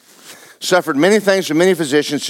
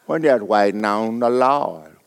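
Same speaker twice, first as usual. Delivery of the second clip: mock pious drawl; 4 semitones lower than usual. Preacher mocking idle believers, slow and lower. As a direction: sink into a lazy drawl on "waiting on the Lord". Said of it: "We hadn't done nothing in ten years".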